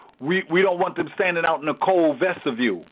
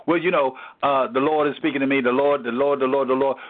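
careless God-talk; 4 semitones lower, faster than usual. Retold or imitated. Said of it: "you gotta say it with reverence".

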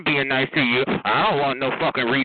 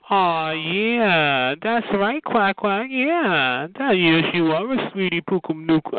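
fake-sweet cooing at him; mocking how nice she is to him; mock sweet talk; slower than usual. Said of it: "you gotta be like".

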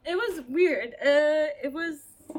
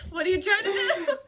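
mock outrage through laughter; giggling while quoting; laughing; 4 semitones higher, 5 dB louder than usual. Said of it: "I was just like".

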